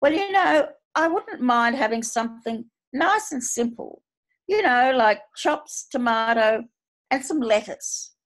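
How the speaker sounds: butter up the waiter with a sugary tone; a hint of sugary politeness from a blunt old woman; sweetest voice. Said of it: "says in her sweetest voice".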